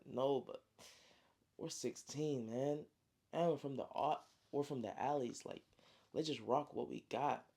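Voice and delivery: soft, pained reply, well below normal level; hurt, quiet. Retold or imitated. Hurt brother answers softly.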